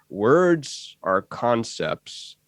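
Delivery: put-on very slow halting elderly teacher; later-life Ram Dass. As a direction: drag each word out, aged and hesitant. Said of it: "a later in life Ram Dass impression".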